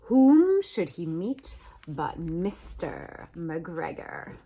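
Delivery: plain reading voice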